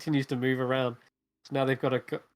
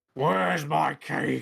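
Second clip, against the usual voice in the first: booming, rough, distant bellowing giant voice; 2 semitones higher, 3 dB louder than usual. The giant the party forgot about calls out for its cake, giant bellowing shout. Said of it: "its voice bellowing, shouting like".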